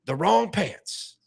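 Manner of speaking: slow, drawn-out the wrong pants; mock slow emphasis. J J Watt on the equipment manager, slow and heavy. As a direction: spell it out slowly like a grave verdict. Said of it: "he goes".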